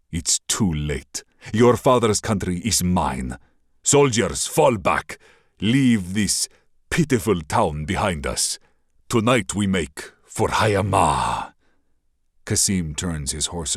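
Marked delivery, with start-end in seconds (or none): 0.1-11.5 lightly voiced sneering prince, a bit louder; gloating villain. Raider prince mocks the princess's refusal, lightly sneering. Kasim commands his soldiers.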